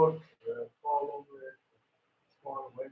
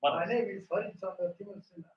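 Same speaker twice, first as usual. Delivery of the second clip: louder, carrying voice; projecting; 3 semitones higher, 5 dB louder than usual. Shown as a demonstration. Student copying the coach's crowd voice. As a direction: speak up as if to a crowd. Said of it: "like you're talking to a crowd".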